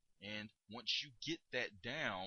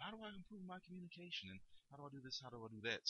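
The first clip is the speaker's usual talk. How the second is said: quoting a question; 6 semitones higher, 6 dB quieter, faster than usual. Retold or imitated. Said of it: "I actually get a lot of questions".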